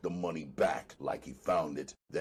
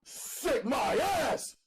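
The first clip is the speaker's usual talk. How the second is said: screamed; slower than usual. Acted. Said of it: "I screamed on her".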